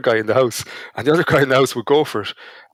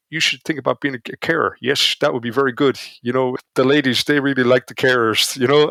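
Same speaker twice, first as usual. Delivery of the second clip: a light hint of a Dutch accent on Kjeld's advice; mild Dutch accent. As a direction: lightly voice the Dutch support worker, not overdone. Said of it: "in his best Dutch accent".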